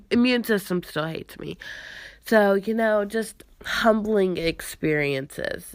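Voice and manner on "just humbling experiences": dry, whispered sarcasm; sarcastic. Real, not acted. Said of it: "if you can't tell the sarcasm in that sentence".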